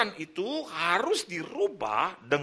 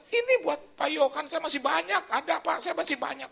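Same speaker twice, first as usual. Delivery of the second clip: higher, laughing as he insists on giving; generous friend laughing; 8 semitones higher than usual. Retold or imitated. Friend handing pastor money, higher laughing insistence. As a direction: chuckle through a generous offer. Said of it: "Dia bilang".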